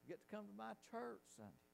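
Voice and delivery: high, eager quote of her; excited old lady. Retold or imitated. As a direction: mimic her bubbling joy about church. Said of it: "Boy, that's excited".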